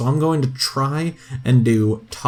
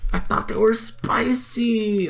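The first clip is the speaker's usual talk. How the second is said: breathy whispered repeat; 8 semitones higher, slower than usual. Real, not acted. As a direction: whisper it to yourself in dismay. Whispered repeat of own line.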